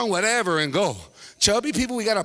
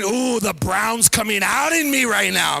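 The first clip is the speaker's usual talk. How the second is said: mock self-admiration; slower than usual. Voices man admiring his growing facial hair.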